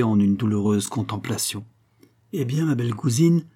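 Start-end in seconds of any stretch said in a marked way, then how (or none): 2.3-3.4 teasing, higher lilting question; mocking tone. Don José mocks his cousin, teasing. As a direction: needle his cousin with mockery. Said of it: "d'un ton moqueur".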